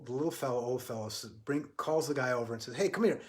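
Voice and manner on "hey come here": raised, higher summons; calling out. Retold or imitated. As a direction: call him over, less than a shout. Old fellow calls guy over.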